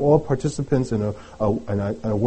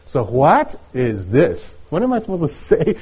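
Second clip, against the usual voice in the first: acted bewilderment; 3 semitones higher than usual. Prophet answering the voice from God, mock bewildered. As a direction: lightly play baffled, with a small laugh. Acting out prophet's puzzled reply.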